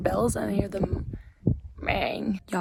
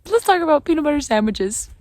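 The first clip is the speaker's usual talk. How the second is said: louder, higher mock show-host opener; presenter voice; 5 semitones higher, 7 dB louder than usual. Shown as a demonstration. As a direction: announce it like a cooking show.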